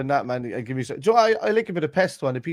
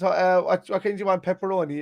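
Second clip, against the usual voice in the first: higher mock voice of the pizza man; 7 semitones higher than usual. Telling mates about the pizza order, mock high voice. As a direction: lift the pitch and ham up the question. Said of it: "the man turned around and says".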